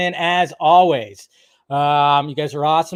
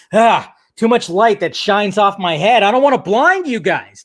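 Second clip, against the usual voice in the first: raised, higher self-quote; mock alarm; 5 semitones higher, 5 dB louder than usual. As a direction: exclaim as if dazzled, playfully exaggerated. Quoting his reaction to his image.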